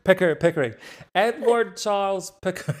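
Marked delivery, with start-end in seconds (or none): 1.1-2.8 put-on a half-laughing go at a Boston accent, a bit higher; attempted Boston accent. Guest tries the Boston accent on the name, laughing. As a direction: try the name in a playful, failed Boston accent. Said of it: "I can't do the accent, but I like it".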